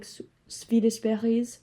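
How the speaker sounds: Swedish berries slipped into a French accent, "Swedish" said the French way; accidental French accent. Real, not acted. Naming her favourite candy, slipping into a French accent. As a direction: catch yourself saying "Swedish berries" with a French lilt. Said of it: "that was a French accent".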